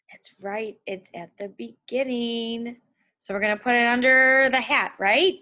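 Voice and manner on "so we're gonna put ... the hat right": teasingly wrong, louder answer; fake-confident to trick the kids; playful trick. Shown as a demonstration. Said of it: "I'm trying to trick you".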